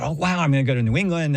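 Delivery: eager rush, lightly acted; excited recalled thought. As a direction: replay a youthful thought with quick, light excitement. Quoting own naive excited thought.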